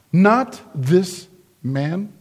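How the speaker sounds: slow NOT, THIS, MAN, each set apart; "Not this man" in slow, separate words, rising at the end; deliberate stress. Shown as a demonstration. Requotes the mob, word by word.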